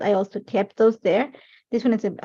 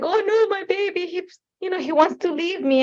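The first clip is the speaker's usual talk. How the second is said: higher, wailing imitation of her own sobbing; mock ugly cry; 8 semitones higher than usual. Mom retelling her wail to husband about son leaving, hammed-up sob. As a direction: ham up a heartbroken mother's cry. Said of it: "this ugly cry".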